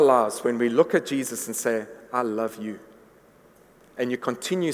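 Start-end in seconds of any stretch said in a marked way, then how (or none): 2.1-2.8 soft, low profession of love; hushed, understated adoration; tender devotion. Acted. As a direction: say it quietly and lower, as heartfelt worship. Voicing tender devotion to Jesus.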